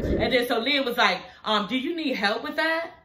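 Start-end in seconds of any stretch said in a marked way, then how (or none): 1.7-2.9 mock-helpful sarcastic offer; sarcastic, faux-sweet question; retelling Leah's sarcastic offer of help. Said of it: "Like, being sarcastic".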